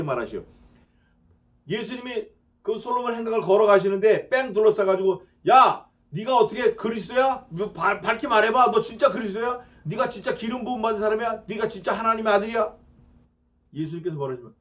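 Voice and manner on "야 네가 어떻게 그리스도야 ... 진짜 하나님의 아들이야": mock challenging crowd. Crowd challenging Jesus in temple.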